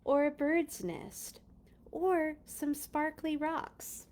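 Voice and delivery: measured read-aloud with pauses between items; storybook narration. A narrator's reading. Reader to children about what to bring, storybook narration. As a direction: read a picture book out to young listeners. Reads picture book aloud.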